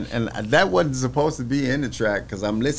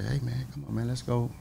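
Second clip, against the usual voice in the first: calm; 2 semitones lower, 5 dB quieter than usual. Retold or imitated. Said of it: "real calm and just say".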